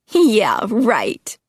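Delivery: high, loud scoffing yeah right; mocking scoff. Tina scoffing at Angus being a monster, high and loud. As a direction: scoff at his warning. Girls laugh at him.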